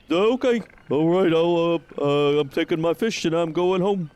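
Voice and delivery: jittery watchman caught off guard; nervous Huxley. Acted. Nervous Huxley stammers at the guard, high and flustered.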